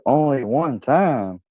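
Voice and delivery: imitating incredulous friend. Friend reacting to the virginity reveal, incredulous. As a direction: stretch it out as an acted, astonished question.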